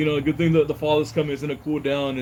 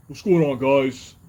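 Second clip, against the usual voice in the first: overdone put-on bass voice, exaggerated and deep. Showing what his voice would sound like if faked, exaggerated deep fake voice. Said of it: "This is a really deep fake voice right here".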